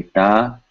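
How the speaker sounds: "ta" with an unaspirated T; no air. Shown as a demonstration. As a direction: release the t of "ta" without a puff of air. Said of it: "with no air".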